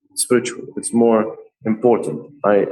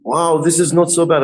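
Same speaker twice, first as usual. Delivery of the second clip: lightly imitated amazed client, higher; pleasant surprise; 8 semitones higher than usual. Artist quoting young man getting tattooed, pleasantly surprised. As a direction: mimic a customer's mild amazement.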